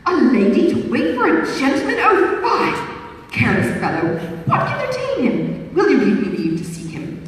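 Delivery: high, hammed-up outrage with a breathy fie; theatrical fop feigning shock; lightly voiced dandy pretending offense; mock indignant gallant.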